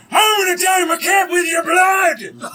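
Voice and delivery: high shouted battle threat; menacing little creature. Acted. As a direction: shriek it as a small murderous goblin. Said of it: "and he goes".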